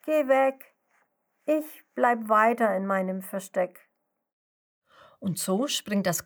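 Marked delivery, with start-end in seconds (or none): 0.1-3.9 shooing call. Acted. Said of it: "Also ruft die kleine Schnecke".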